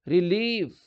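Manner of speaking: रिलीफ with a long ee in "ली". Shown as a demonstration. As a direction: draw out the ee of रिलीफ. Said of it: "आ रही है ना बड़ी ई की sound".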